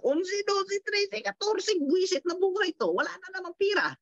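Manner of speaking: high, strained exasperated count; ugh, wala na namang pira; frustrated counting. Acted. Counting pay days, frustrated. (mataas na boses, inis na pagbibilang)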